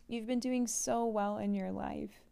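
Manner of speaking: real emotion breaking through with a laugh; choked up, pushing through with a little laugh; moved, laughing through the tears; emotional. Real, not acted. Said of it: "Sorry, I'm getting emotional".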